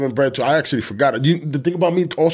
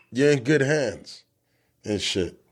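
commercial voiceover; 3 semitones lower, 5 dB quieter, slower than usual. Pretend. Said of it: "That's the damn commercial".

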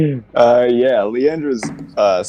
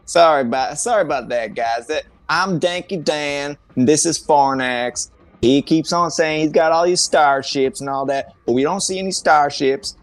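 lightly voiced raised-pitch cowboy; Danky Dan voice; 5 semitones higher than usual. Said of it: "He's like".

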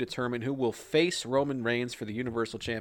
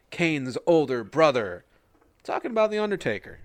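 ring announcer intro; 3 dB louder than usual. Acted.

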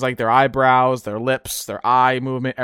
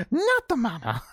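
higher, laughing through it; giggling Baby line; laughing catchphrase; 8 semitones higher, 6 dB quieter than usual. Retold or imitated. Baby hitting father, higher with laughter.

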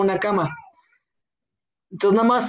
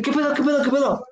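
higher-pitched, rapid repeated question; startled awake; 5 semitones higher, faster than usual. Retold or imitated. Sleeper jolted awake by his buddy, startled.

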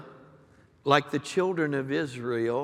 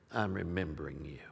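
hushed divine quote; 8 semitones lower, 11 dB quieter, faster than usual. Retold or imitated. Quoting God's gentle word.

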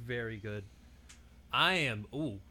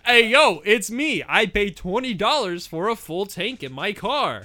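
impersonating his friend; 2 semitones higher, 6 dB louder, slower than usual. Pretend. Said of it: "you have to impersonate each other".

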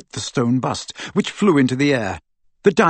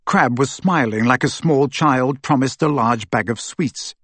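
ordinary delivery, nothing marked

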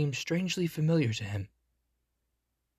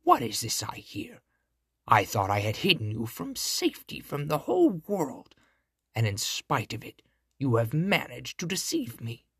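scolding witch. Acted. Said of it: "cried the witch".

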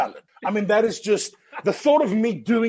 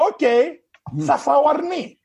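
resigned newcomer; 8 semitones higher, 5 dB louder than usual. Retold or imitated. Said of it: "you go".

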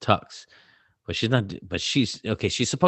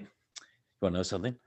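hushed lead-in; 8 dB quieter, much faster than usual. Retold or imitated. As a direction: imitate a kid quietly setting up a challenge. Retold kid's sly, quiet approach.

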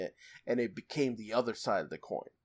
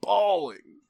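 retold bawling; 4 semitones higher, 6 dB louder, much slower than usual. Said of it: "I started crying".

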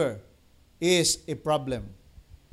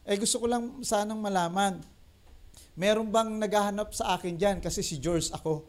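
different voice; 2 semitones higher than usual. Retold or imitated. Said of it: "Tas iba boses".

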